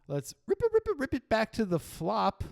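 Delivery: high, sing-song rip it back; excited call to rewind. Real, not acted. Host rewinding the hand for viewers, hyped. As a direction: hype up the rewind like a show host.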